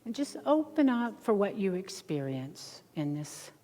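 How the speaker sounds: soft, slow relaxation voice; guided meditation. Acted. Meditation leader settling a group with eyes closed, hushed guidance. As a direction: ease them gently into stillness, very softly.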